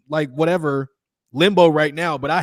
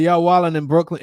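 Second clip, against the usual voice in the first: put-on Brooklyn accent. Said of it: "in my Brooklyn voice".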